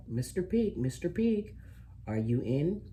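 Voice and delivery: high sing-song call to the door; sweetly calling the pig from outside. Acted. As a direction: call up high, like knocking for a neighbor. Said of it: "I called".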